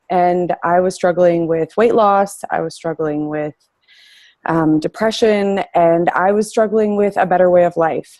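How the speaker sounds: breathless after running up the stairs; out of breath. Real, not acted. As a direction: speak while still out of breath. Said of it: "I'm out of breath from just running up and down the stairs".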